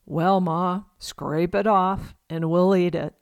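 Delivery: Pa answering in a lightly put-on Southern drawl; a dry, folksy Southern twang; Southern accent. Pa jokes back to Ma in a mock Southern accent. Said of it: "in their strongest Southern accent".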